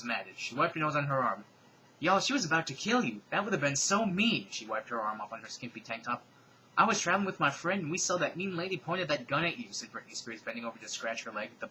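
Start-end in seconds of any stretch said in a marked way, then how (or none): 2.0-4.5 higher, louder Southern twang; pop singer impression. 6.8-9.7 higher, louder Southern twang; pop singer impression. The singer voice continues.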